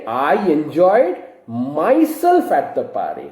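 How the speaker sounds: slow, with "myself" drawn out and lifted; measured sentence that highlights "myself"; stress on "myself". Shown as a demonstration. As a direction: model the correction, leaning on "myself". Corrected sentence, added word stressed.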